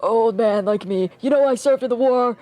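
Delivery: put-on a self-pitying old veteran rambling; very old man. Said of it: "let me get my old man voice".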